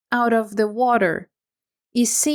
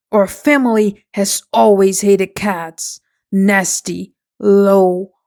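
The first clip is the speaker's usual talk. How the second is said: furious mouse; 3 semitones lower, 5 dB louder than usual. Acted. Mouse furious about cats.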